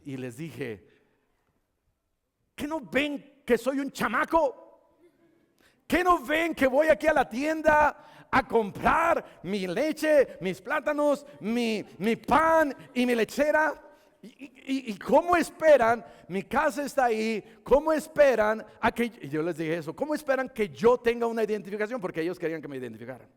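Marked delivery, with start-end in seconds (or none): 2.6-19.0 high, emphatic acted outrage; indignant protest. Boy protests to supposed police, acted indignation. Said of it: "Y así casi yo me enojé". 19.9-22.0 fast, higher-pitched retold protest; indignant question. Boy objects to showing identification, quick mock indignation. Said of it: "Y así casi yo me enojé".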